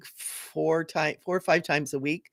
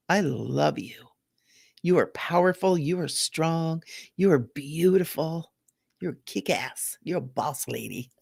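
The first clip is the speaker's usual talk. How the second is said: affirmation. Shown as a demonstration. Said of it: "and just go".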